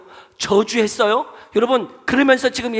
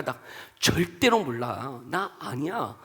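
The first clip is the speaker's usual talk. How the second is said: slow, low, cut-and-dried refusal; firm denial; 4 semitones lower, slower than usual. Acted. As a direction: deny it slowly and flatly, leaving no room. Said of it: "분명하게 짝 달라". (딱 잘라 부인하듯)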